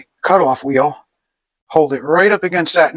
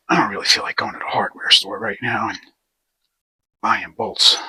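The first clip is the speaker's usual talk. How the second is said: muttered aside; 4 semitones lower than usual. Real, not acted.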